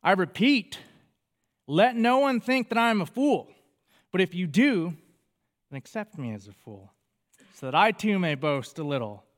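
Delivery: sarcastic, boastful scripture reading; cocky sarcastic reading. Acted. Preacher reading Paul's boast with a sarcastic edge. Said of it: "Hear that tone in my voice".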